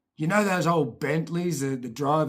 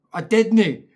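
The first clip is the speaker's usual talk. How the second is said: put-on kid denial; 6 semitones higher, 9 dB louder than usual. Kid denying to mum.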